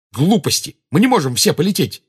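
exasperated outburst; infuriated. A narrator's reading. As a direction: reject it hotly. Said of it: "снова разъярился Гарри".

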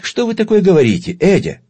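high, loud market haggler's outcry; haggling dealer tone. Acted. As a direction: play the outraged bazaar dealer. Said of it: "воскликнул Бабель тоном перекупщика". (тоном перекупщика, возмущённо и громко)

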